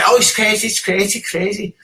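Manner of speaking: high, quick mocking sing-song repeating crazy; brushing off the police with a high, quick mocking lilt. Mocking what he says to them.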